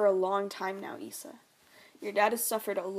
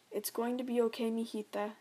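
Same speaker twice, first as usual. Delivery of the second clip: soothing mom; 4 dB quieter than usual. Acted. Mother soothing toddler.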